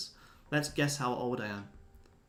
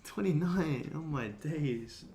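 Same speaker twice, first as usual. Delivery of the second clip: higher-pitched, incredulous read-out; amused disbelief; 4 semitones higher, much slower than usual. Real, not acted. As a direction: react to each guess as if mildly scandalised. Reading viewers' guesses of his age.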